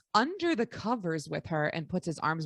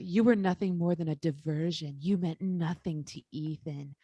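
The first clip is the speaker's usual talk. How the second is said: seductive whisper; 5 semitones lower than usual. Retold or imitated.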